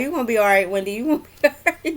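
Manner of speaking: reassuring, breaking into a laugh; laughing reassurance. Retold or imitated. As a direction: tease her gently, laughing. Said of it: "they were laughing at me".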